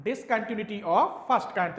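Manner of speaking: slow, word by word for notes; slow dictation. Shown as a demonstration. Teacher dictating Discontinuity of first kind to students, slow and deliberate. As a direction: spell out Discontinuity of first kind slowly so students can write. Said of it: "तो ये भी लिखे देता हूं".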